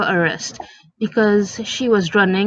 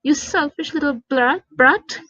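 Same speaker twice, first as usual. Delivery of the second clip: exploding mom; 6 semitones higher than usual. Acted. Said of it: "E M freaking explodes".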